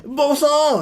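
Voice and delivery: put-on high, slow child's exclamation; kid voice. Child marine struggling with big pistol, kid voice. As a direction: stretch it out like a little boy. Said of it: "avec sa voix de gamin".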